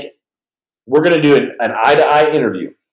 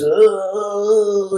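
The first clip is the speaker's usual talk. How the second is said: sleepy groan; 9 semitones higher than usual. Retold or imitated. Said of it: "try to pee like this".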